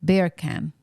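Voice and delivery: "Beer can" run together to pass for Jamaican "bacon"; mock Jamaican accent. Shown as a demonstration. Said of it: "in a Jamaican accent".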